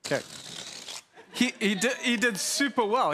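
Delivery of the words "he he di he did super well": higher and louder, tumbling out in real surprise; surprised delight. Real, not acted. Pastor to congregation after the volunteer catches it, delighted. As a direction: gush at how well the volunteer did. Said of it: "I was surprised".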